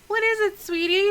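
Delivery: high-pitched, sweet wifely voice; innkeeper's wife. Acted. Wife answering her husband's call, high and sweet. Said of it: "And Grace is like".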